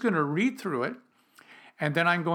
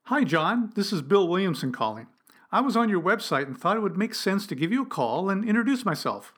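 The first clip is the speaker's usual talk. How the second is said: demo cold call opener. Shown as a demonstration. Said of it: "Here's what I say".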